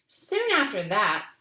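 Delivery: put-on gentle storytelling voice for children; reading a picture book aloud. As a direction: read it like story time, clear and calm.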